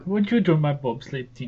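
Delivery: lightly put-on Jamaican accent; a hint of a Jamaican voice. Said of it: "doing his Russian accent".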